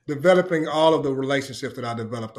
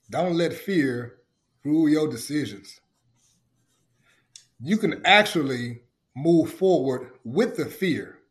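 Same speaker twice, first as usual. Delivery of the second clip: sincere; slower than usual. Real, not acted. Giving earnest advice.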